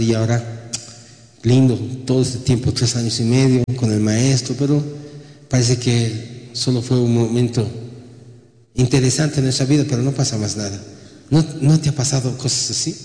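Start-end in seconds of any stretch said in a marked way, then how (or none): 0.0-4.5 low, subdued disciples' voice; sad, dejected. Acted. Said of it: "Estaban tristes, ¿no? Pensando". 4.6-10.8 low, subdued resignation; sad, dejected. Acted. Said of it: "Estaban tristes, ¿no? Pensando".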